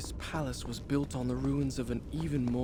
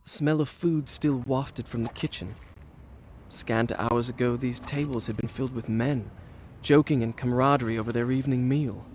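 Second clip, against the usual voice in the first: story narration. A narrator's reading. Prince narrates his tale.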